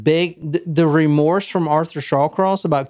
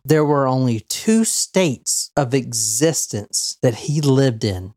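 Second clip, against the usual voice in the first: ordinary delivery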